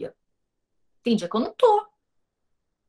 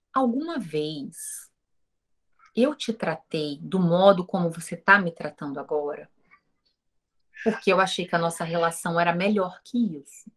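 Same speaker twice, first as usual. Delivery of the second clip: calm reply; 5 semitones lower than usual. Retold or imitated. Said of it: "olhei pra ele calmamente".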